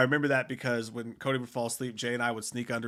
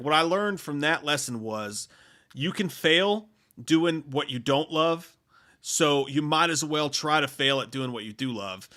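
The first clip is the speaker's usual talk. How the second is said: measured quote; slower than usual. Retold or imitated. Quoting a speech's key advice.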